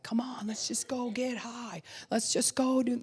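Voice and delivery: put-on high, tempting kid whisper; foolish little kid. Inner child tempting you to get high, high sly whisper. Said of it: "that little kid".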